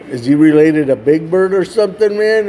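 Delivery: teasing question. Retold or imitated. Boys joking about Big Bird.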